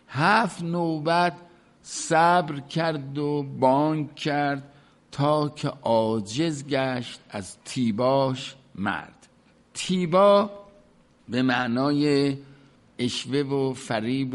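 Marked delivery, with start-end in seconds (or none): 0.1-9.3 slow, measured verse reading; poem recitation. Acted. Teacher recites the Masnavi couplet to students, in slow measured verse. 9.7-10.5 "تیبا" said alone, higher and louder, without the final sh; pronounced word. Shown as a demonstration. Teacher shows students the word "تیبا" without the sh. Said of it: "اینجا اولاً شین جزو کلمه نی".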